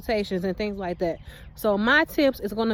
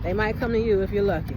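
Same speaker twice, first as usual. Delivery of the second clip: quick, lower repeat; hurried, low-pitched afterthought; low aside; 4 semitones lower, faster than usual. Real, not acted. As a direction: toss it off low and fast.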